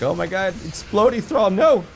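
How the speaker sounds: high panicked shriek; rising panicked wail. Retold or imitated. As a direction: squeal in mock panic at the enemy. Panicked reaction in game.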